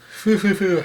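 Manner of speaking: badly faked high-pitched chuckle; lightly imitated titter; Robin's mild laugh. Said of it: "Robin's somewhat laughing".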